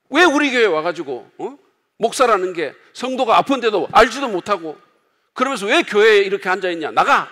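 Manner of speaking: mock angry tirade. Hot-tempered pastor berating a district pastor, mock angry. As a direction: tear into him for neglecting the sick. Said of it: "이렇게 말한대요".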